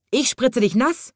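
high, excited cry of a seal; schreiend. A narrator's reading. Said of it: "schrie der Seehund". (hoher Ruf eines Seehunds)

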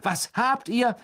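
high-pitched shocked question; appalled. A narrator's reading. Older brother questions the three, high appalled tone. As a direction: demand it in horrified disbelief. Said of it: "sagte er entsetzt".

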